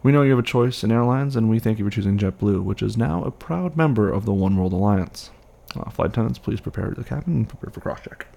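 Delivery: airline cabin announcement voice; flight attendant. Acted. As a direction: read it like a pilot on the intercom. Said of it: "let me get on the horn right now".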